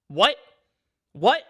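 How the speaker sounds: loud, rising what, twice in disbelief; incredulous What. Real, not acted. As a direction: shout it like you can't believe it. Outraged disbelief at claim.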